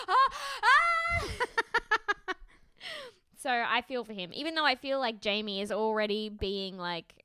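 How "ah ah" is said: high, loud wailing gasps; mock distressed cry. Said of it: "I feel like I'd be like this".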